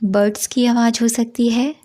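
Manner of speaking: measured meditation guidance with long pauses; guided meditation. Acted. Teacher guiding listeners into a five senses meditation, measured guided-meditation delivery. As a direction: lead listeners through it unhurriedly, phrase by phrase.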